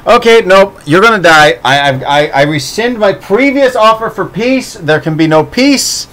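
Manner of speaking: hammed-up fury at a bad pun; mock outrage.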